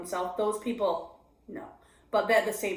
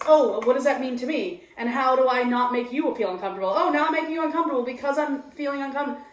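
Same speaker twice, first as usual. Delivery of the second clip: rushing, higher self-conscious chatter; anxious inner voice; 4 semitones higher, 4 dB louder, faster than usual. Retold or imitated. Mocking her own anxious thoughts, rushed and higher. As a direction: spiral faster and faster.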